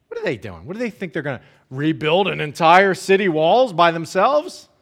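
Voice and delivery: sneering, incredulous taunt; mocking jeer. Sanballat jeers at the Jews before his army, mock taunting. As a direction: sneer at the feeble builders. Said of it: "He's jeering them. He's saying".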